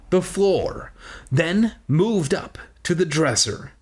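measured read-aloud storytelling; story narration. Acted. Reading a children's book aloud to listeners, storytelling. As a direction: read it out slowly and clearly like a storybook.

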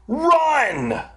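high, stretched-out urgent cry. A narrator's reading. Sammy urging himself on in the race, urgent. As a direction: send it up high like a starting signal. Runner urges himself on in story.

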